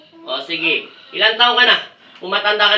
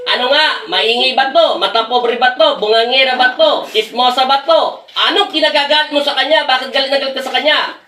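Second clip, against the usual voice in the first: raised, higher-pitched list of questions; heated interrogation; 4 semitones higher than usual. Real, not acted. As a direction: press each question hard at the spirit. Fires accusing questions at spirit.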